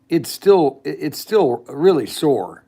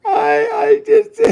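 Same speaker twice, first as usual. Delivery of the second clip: high, wailing fake sob, much higher and hammed-up; mock crying; slower than usual. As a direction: wail it like a fake tantrum cry.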